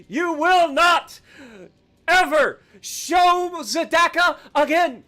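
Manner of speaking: slow, emphatic decree; hammed-up slow warning; mock-villain threat. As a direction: draw out each word triumphantly. Gloating threat to the enemy.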